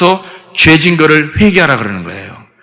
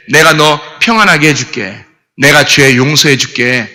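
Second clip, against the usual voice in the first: the Lord forgiving. Retold or imitated. Preacher voicing the Lord comforting a sinner, gently reassuring. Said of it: "주님이 그러시는 거 아니에요?".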